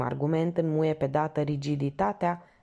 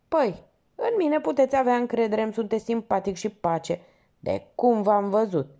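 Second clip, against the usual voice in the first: solemn declaration; 6 semitones higher, 3 dB louder than usual. Acted. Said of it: "declară solemn portarul".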